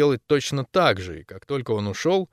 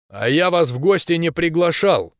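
loud, raised-pitch retort; snapping back; 5 semitones higher, 5 dB louder than usual. A narrator's reading. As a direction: snap back irritably at unwanted guests. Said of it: "огрызнулся Макс". (огрызаясь, раздражённо)

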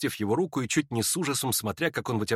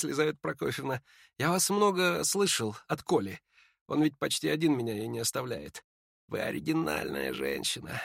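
softer, weary dying voice; faint dying young man; 3 semitones higher, 5 dB quieter than usual. Acted. Ippolit tells Lizaveta of his death, faint and weary. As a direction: speak like a sick man short of strength.

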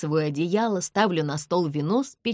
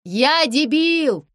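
higher, loud, slow self-accusing yell; confessing at full volume; 10 semitones higher, 8 dB louder, much slower than usual. A narrator's reading. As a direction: bellow it out slowly. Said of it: "орёт Леон".

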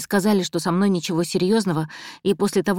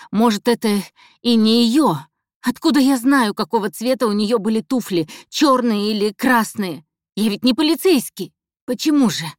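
higher, louder, rising protest; defiant outburst; 3 semitones higher, 4 dB louder than usual. Acted. Captive protesting to the killer, higher and louder. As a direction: fire back with mock innocence.

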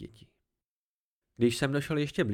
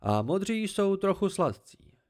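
higher, slow and savoring; casual; 7 semitones higher, 3 dB louder, slower than usual. Acted. The Cthaeh tells the boy of its taste, slow and casual. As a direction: linger over it, unconcerned. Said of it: "Hlas zněl nenuceně".

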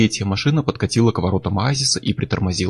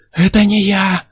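high, loud panicked cry; almost yelling it, denying the murder; near shout; 10 semitones higher, 4 dB louder, slower than usual. A narrator's reading. Chuck almost yells his innocence at Miller, high and loud. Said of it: "почти заорал он".

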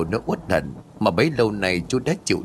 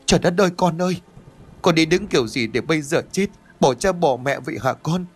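higher, keening cry over her son, mildly acted; a hint of sobbing grief, understated; mother wailing over her dead son's body; wailing lament; 5 semitones higher than usual. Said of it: "vừa khóc vừa la".

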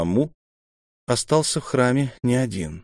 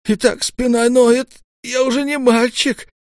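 high, louder aching grumble; complaining old mentor; 5 dB louder than usual. A narrator's reading. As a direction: whine about his sore back.

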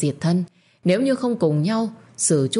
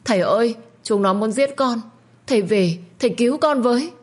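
sobbing plea; 7 semitones higher, 3 dB louder than usual. Acted. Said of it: "Lúc này nó nức nở".

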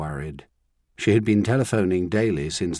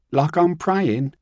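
higher, slow, incredulous lad; mock the idea of praying; runaway boy balking at kneeling in church; scoffing boy; 7 semitones higher, 5 dB louder, slower than usual.

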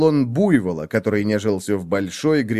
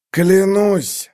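high, loud angry oath; growled vow; 9 semitones higher, 4 dB louder than usual. A narrator's reading. Hungry wolf swears revenge, angrily. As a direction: swear it with rage. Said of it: "рычал волк".

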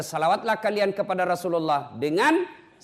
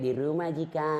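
soft sweet reply; 5 dB quieter than usual. Retold or imitated. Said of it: "kasih syahdu suara ta".

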